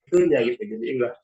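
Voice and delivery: audio breaking up mid-sentence; choppy bad-signal voice; glitching audio. Real, not acted. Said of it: "Putus-putus ya".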